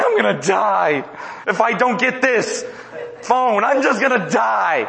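hammed-up teen wail over a phone; mock the teen who will die without a phone; overdramatic teenager. Preacher mocking a teen begging for a phone, hammed-up wail. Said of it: "Very overdramatic about everything".

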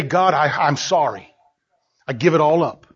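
humble surrender in prayer; penitent prayer. Acted. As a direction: offer a subdued apology to God. Models an apology to God.

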